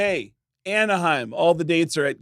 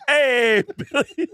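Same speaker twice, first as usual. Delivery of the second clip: douchey greeting; 6 semitones higher, much slower than usual. Retold or imitated. Mimicking the fan greeting a singer, douchey. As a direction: do a douche's drawn-out hello. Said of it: "getting pretty good at doing impersonations".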